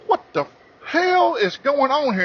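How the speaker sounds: high, slow laughing yelp; startled high yelp. Retold or imitated. Jumped back in surprise.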